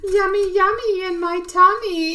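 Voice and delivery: imitating her parrot's high baby voice; baby bird voice. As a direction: chirp it like a happy little bird. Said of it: "is what he says".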